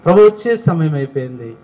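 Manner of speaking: usual speaking voice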